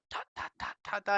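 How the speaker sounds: quick voiceless ta-ta-ta taps; imitated poking noise. Medium mimics spirit poking fire with a stick, imitated noise. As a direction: tap out little poking sounds with the tongue.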